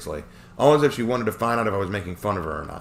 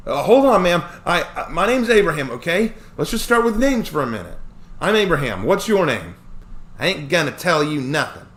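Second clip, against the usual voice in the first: tense argument; 6 semitones higher, 6 dB louder than usual. Acted. Dialogue voices, raised and tense.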